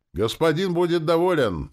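very high, loud devoted cry; yelling in Valera's intonation. A narrator's reading. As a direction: shout it like an eager servant, pitch soaring. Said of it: "заорала тётка почти с Валериными интонациями". (заорать высоко, с преданным убеждением)

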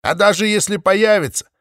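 high, loud proud boast. A narrator's reading. Mothe boasts to the flock, proud and loud. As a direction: crow about it proudly. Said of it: "не без гордости добавила она".

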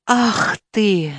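ordinary delivery, nothing marked

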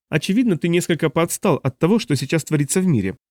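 put-on smug young man. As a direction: play the cocky grandson. Dun speaks.

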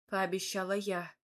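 plain reading voice

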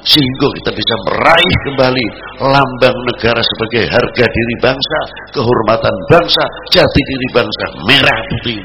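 loud, rousing sermon oratory; forceful preaching. Acted. Preacher on the nation's dignity and honour, forceful preaching. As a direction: ring it out to the congregation.

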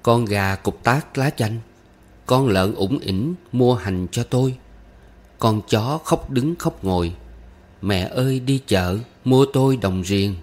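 measured folk-verse recitation; lilting children's rhyme; reciting a rhyme. A narrator's reading. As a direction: recite line by line as if teaching a child. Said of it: "Rồi đến bài".

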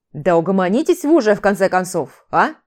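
ordinary delivery

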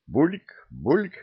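rising glug, glug of pouring; gurgling pour. A narrator's reading. The oak pours two glugs into a mug. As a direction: mimic liquid glugging into a mug. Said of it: "с двумя бульками".

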